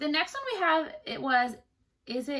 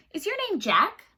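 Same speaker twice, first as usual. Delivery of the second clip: queen asking; 9 semitones higher, 5 dB louder than usual. A narrator's reading. Queen questions the little man.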